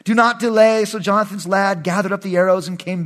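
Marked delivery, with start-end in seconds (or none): 0.0-0.8 calling out. Acted. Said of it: "And Jonathan cried out after the lad".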